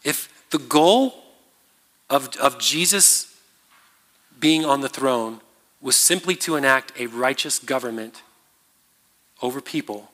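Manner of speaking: very slow, spaced out with long pauses; super slow. Shown as a demonstration. Preacher to the congregation, making sure all follow, super slow. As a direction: lay each phrase down slowly so everyone keeps up. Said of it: "I'm gonna say this super slow".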